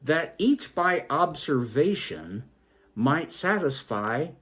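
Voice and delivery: a lightly rhythmic verse reading; poem recitation. Acted. Storyteller reading John Sachs' original, light verse reading. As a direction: read the old lines steadily.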